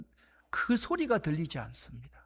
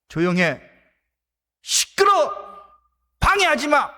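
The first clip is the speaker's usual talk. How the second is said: loud angry shouts, much higher; scolding crowd; 8 semitones higher, 10 dB louder than usual. Acted. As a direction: shout him down. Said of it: "라고 말하는 사람들이".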